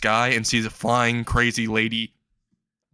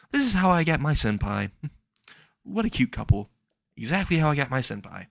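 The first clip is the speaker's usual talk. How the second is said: gushing onlooker; 4 semitones higher than usual. Acted. Onlooker gushing over the couple.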